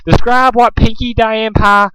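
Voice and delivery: high, loud, slow interrogation; furious demand. A narrator's reading. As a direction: spit out the order. Pinkamena interrogating.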